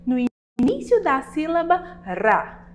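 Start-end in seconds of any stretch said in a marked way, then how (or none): 2.0-2.7 "Rá" with the tongue tip vibrating on the palate; soft tapped R. Shown as a demonstration. Teacher pointing out the sound to pupils, vibrated R in "Rá". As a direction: let the tongue tip flutter on the R of "Rá". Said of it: "prestem atenção ao som emitido da letra R".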